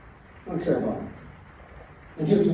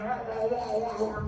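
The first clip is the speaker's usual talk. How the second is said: imitated griping noise; 4 semitones higher, 8 dB quieter than usual. Mimics friend griping after call.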